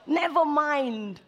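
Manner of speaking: slow laughing shrug. Real, not acted. Preacher laughing off his messy cooking.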